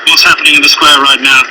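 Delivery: muffled behind a gas mask; through a gas mask. Real, not acted. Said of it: "I'm now wearing a gas mask".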